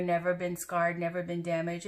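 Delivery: ordinary delivery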